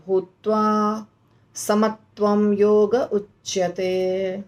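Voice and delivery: slow, drawn-out Sanskrit verse recitation; slow shloka recitation. Shown as a demonstration. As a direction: chant the verse slowly, pausing at each phrase. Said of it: "इस प्रकार श्लोक complete होता है". (धीमा श्लोक पाठ)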